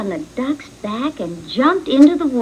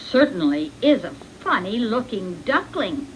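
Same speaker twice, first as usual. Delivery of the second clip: father duck; 2 semitones lower than usual. Acted. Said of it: "said the father duck".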